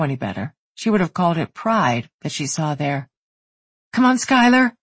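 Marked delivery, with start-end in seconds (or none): 3.9-4.8 higher, louder cheer. A narrator's reading. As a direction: shout encouragement. Cheering her on.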